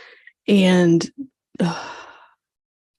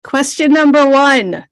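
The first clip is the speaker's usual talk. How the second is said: louder repeat; 4 semitones higher, 4 dB louder than usual. Real, not acted. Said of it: "What's that?".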